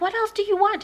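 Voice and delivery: high, loud question; retold desperate question. Victim to searching intruder, high loud question.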